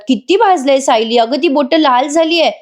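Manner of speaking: acted dismay, pitch lifted; alarmed concern. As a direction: fuss over someone's burnt fingers. Acted aunt alarmed at burnt fingers.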